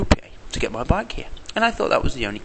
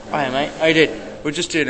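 cheery greeting; 4 semitones higher, 5 dB louder than usual. Real, not acted. Greeting the boss on camera.

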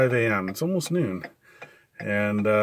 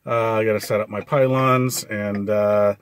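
hazard flashers ticking behind voice; clicking in background. Real, not acted. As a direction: roadside with clicking blinkers. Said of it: "You can probably hear the clicking in the background".

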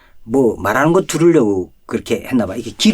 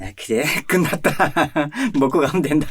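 laughing reply; 4 semitones higher than usual. Retold or imitated. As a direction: chuckle through the words. Jailer laughing as he agrees.

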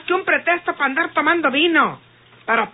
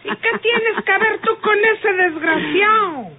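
slow, sharp, accusing question; confronting her friend about the scoundrel; angry demand; 4 semitones higher, slower than usual. Acted. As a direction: press her hard for the truth. Teresa confronting Tacha.

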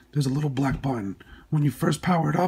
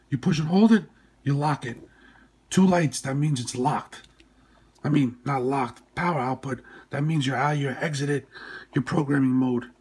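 nose packed with gauze. Real, not acted. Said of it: "Sorry about my voice, I just had surgery".

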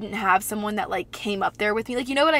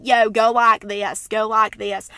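loud, drawn-out Southern drawl; drunk Southern accent; 6 dB louder than usual. Retold or imitated. Tipsy woman recruiting strangers to dance, Southern accent. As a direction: call it out with a Southern twang. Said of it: "my voice gets so southern".

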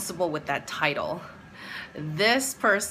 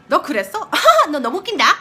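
high, louder mocking Korean jab with a laugh; catty mocking; 7 semitones higher, 8 dB louder, much faster than usual. Imitating the catty classmate, mocking laughter. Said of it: "even that sounded catty".

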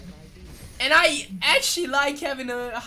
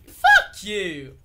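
loud squeaky mock outburst; high-voiced comeback, shouted; too-high yell; 2 semitones lower, 10 dB louder than usual. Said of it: "that was too high".

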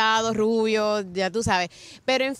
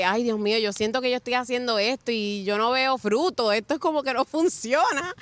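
retold complaint. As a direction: retell your own fretting, pitch climbing at the end. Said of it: "era mi paño de lágrimas".

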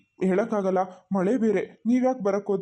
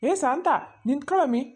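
calling out; 3 semitones higher than usual. Acted. Calling wife to stop.

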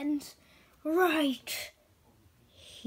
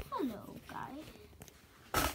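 slow villain greeting; 3 semitones higher, 9 dB quieter, much slower than usual. Acted.

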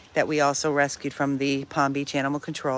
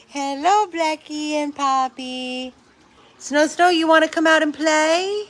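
gushing pet greeting; 10 semitones higher, 6 dB louder than usual. Real, not acted. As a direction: greet your dogs like adored babies.

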